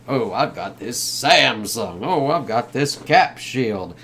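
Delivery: slow, drawn-out fake casual plug; stilted sponsor plug, dragged slowly; mock product placement. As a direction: draw out the brand name for the camera. Mocking stilted product placement in films.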